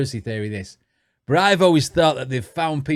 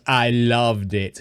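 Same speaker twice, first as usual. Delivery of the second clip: mock Australian accent; 5 semitones lower, slower than usual. Shown as a demonstration. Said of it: "That's how it sounds".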